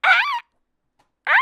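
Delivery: short high mock clicker screech; two sudden creature yelps; imitated zombie shriek. Imitating slow clicker zombies, short high shrieks.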